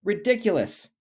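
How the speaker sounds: high scoffing cat voice; lightly catty voice mocking Shelley; meowing cat. A narrator's reading. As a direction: sneer it like a smug cat. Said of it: "meowed the cat".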